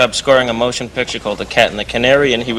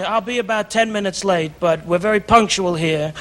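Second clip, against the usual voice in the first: higher put-on Jewish London accent; 5 semitones higher than usual. Prank caller fooling the composer, Jewish London accent. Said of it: "Now I'm talking in a Jewish accent from London".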